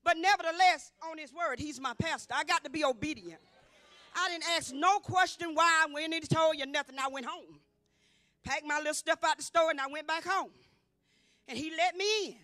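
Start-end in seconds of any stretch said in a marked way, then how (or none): 4.2-7.0 emphatic raised voice. Real, not acted. Insisting she obeyed the pastor.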